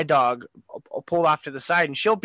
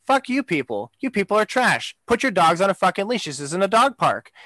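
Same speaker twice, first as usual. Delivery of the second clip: emphatic, higher-pitched telling-off; retold angry rant; 5 semitones higher than usual. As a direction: replay cussing out careless owners. Retold rant at dog owners.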